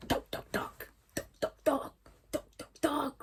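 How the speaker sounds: soft rhythmic knocks on a door; imitated knocking. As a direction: tap the words out in little bursts. Imite à nouveau les coups. (imitation de petits coups à la porte)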